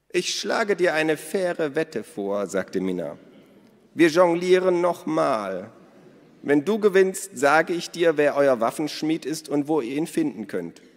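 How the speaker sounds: hoch, laut und langsam, genüsslich; lauernde Minna. A narrator's reading. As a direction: Minna lockt Elos in eine Wette. Narrator voices Minna. (hohe, langsame, lauernde Stimme)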